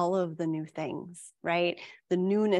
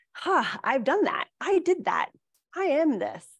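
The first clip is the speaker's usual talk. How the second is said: higher-pitched, self-honoring pride, not boisterous; quiet pride; 7 semitones higher than usual. Acted. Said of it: "that pride, that strength in that truth".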